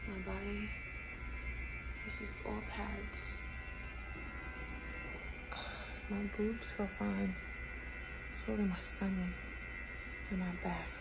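barely holding up after surgery; weak after surgery. Real, not acted. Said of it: "feels like I'm doing push-ups".

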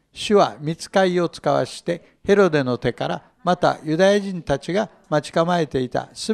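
聖書を朗読する落ち着いた声; 一節ずつ、ゆっくり丁寧に読み上げる; scripture reading. Acted. Reads scripture passage. (会衆に向けて聖書を朗読する声)

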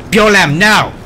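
loud, high, desperate pleading shouts; panicked shouting. Acted. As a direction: yell at him to stop, begging. Pleading with companion killing troll.

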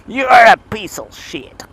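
slow, high, loud shout, stretching "are"; mock shout. Man yelling mock insults at his motorbike, hammed-up shout. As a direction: yell the insult at the bike, hammed-up.

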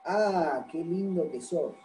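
sincere, softly spoken compliment; tender "what a cutie" intonation; admiring compliment. Shown as a demonstration. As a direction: say it as honest admiration of someone's looks. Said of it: "con una entonación se puede ver esto".

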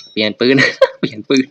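loud, laughing through the words; laughing panic. Real, not acted. Gamer scrambling to swap guns, loud laughing panic. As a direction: giggle while scrambling to switch. Frantic gun swapping mid fight.

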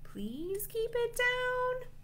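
slow, high, drawn-out plea; weary begging, last word stretched high; tired plea. A narrator's reading. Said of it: "One tired dragon asks".

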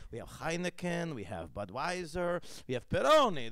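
imitated Italian waiter reciting beers, building; Davide. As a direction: list the beers high, then burst out on the last. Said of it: "he'd be like".

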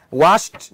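"Washed" ending in a crisp voiceless T; final T sound. Shown as a demonstration. Teacher showing the -ed ending, "Washed" closed on T. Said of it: "đọc là tờ này".

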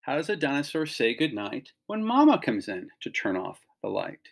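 put-on lively storybook read-aloud to kids; animated picture-book reading; reading to children. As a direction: read it like bedtime story time for a class.

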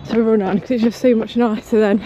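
talking mid-run, a little puffed; while jogging. Real, not acted. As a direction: keep talking as you jog along. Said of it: "I've been going for ten minutes".

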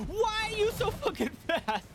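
high, loud exasperated yell; frustrated shout. Real, not acted. Player chased by a fast bear, frustrated yell. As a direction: yell while fleeing.

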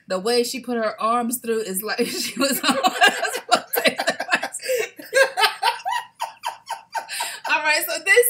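tickled by the flotation joke; laughing. Real, not acted. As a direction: giggle the words out. Laughing about flotation device.

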